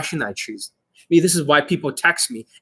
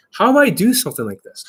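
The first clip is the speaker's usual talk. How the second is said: higher, upbeat and carefree; fun, carefree vibe; 5 semitones higher than usual. Shown as a demonstration. Dating coach demonstrates a positive vibe, carefree. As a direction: lift HOW DO I into a positive vibe. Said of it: "positive vibe, like, right now".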